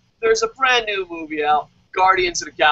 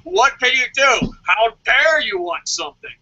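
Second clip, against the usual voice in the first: smug dismissive. Pretend. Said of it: "supposed to be a dick and fucking be like".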